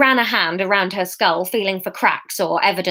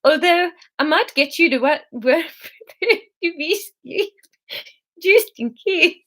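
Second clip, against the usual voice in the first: put-on higher Swedish accent falling apart; garbled Swedish accent; 6 semitones higher than usual. The speaker warns Emma about work, garbled Swedish accent. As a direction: mangle it in failing faux-Swedish. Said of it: "It's not even words anymore".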